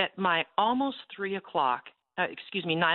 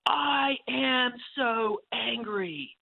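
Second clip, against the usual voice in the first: God's voice; 4 semitones higher than usual. Retold or imitated. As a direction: give God's words a touch of rising wrath. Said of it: "I could hear the voice of my God shouting".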